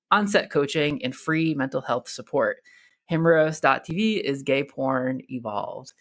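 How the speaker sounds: polished, scripted sponsor read; podcast ad read. Acted. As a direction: read it like a rehearsed promo. Host reads sponsor ad.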